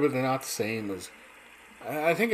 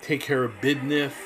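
Dusty Rhodes catchphrase; 2 semitones higher than usual. Retold or imitated. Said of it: "he always had his catchphrases".

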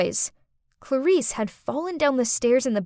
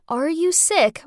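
repeated question; 5 semitones higher, slower than usual. Retold or imitated. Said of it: "the question".

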